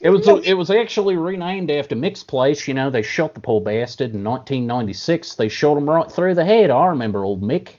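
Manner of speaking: mock Aussie yarn about old Mick; Australian accent. Host telling a tall tale about old Mick in mock Australian accent. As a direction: spin it like a bush storyteller in a put-on Australian accent. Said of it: "That is a great accent".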